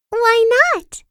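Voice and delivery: put-on high, light amused girl voice; chuckling. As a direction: tease it with a chuckle. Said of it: "she chuckled".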